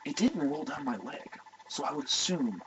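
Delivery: soft, slowing deadpan answer; mock meek confession; sheepish reply. Acted sheepish detainee answering.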